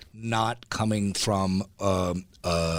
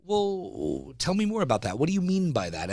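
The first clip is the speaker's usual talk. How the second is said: patient parent; 7 semitones higher than usual. Retold or imitated. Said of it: "when I do have the patience to say".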